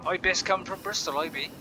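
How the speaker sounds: playful broad Bristol dialect; Bristolian accent. Shown as a demonstration. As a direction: put on a Bristolian local's accent. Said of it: "Like, Bristolian".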